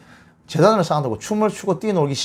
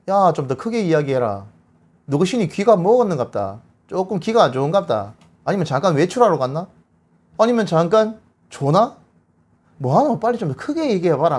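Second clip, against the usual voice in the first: lightly acted taunting of a rival; mocking taunt; 2 semitones higher than usual. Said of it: "삐딱하게 앉아가지고 엘리야가 조롱합니다". (살짝 비꼬며 조롱하는 말투)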